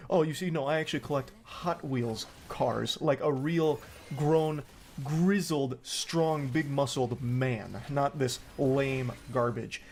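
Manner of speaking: mock self-important boast, slow on the adjectives; lightly hammed-up superior hobbyist, drawing out each word; pinky-up snobbery. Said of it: "it just sounds like pinky up, high off your own fumes".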